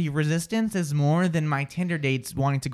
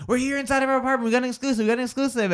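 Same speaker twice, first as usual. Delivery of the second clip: reporter voice; 9 semitones higher, much faster than usual. Retold or imitated. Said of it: "just going like".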